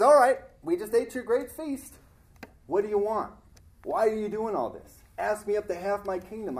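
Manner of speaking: the king grandly offering a reward; king's offer. Retold or imitated.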